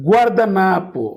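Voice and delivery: গুয়ার্দানাপো spelled out slowly, the Portuguese way; slow Portuguese word. Shown as a demonstration. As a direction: sound out গুয়ার্দানাপো slowly for learners. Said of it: "অর্থাৎ". (ধীরে ধীরে গুয়ার্দানাপো উচ্চারণ)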